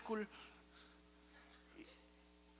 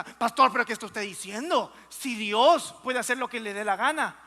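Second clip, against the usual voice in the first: louder, mildly indignant objection; mock offended; 6 dB louder than usual. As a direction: voice an affronted churchgoer challenging the pastor. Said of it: "antes de que usted se ofenda".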